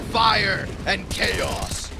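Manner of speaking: slow, high, laughing villain line; maniacal quote. Retold or imitated. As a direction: draw it out like a gleeful madman. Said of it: "Connor yelled, "Ha, ha, ha, through fire and chaos".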